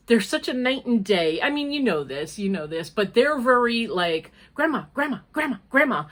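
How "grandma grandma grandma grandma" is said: mock clamouring grandkids. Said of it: "they're very loud and boisterous".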